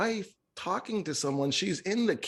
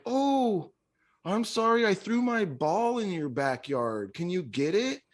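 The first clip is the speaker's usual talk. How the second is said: stranger's apology; 5 semitones higher than usual. Retold or imitated. Voicing the stranger.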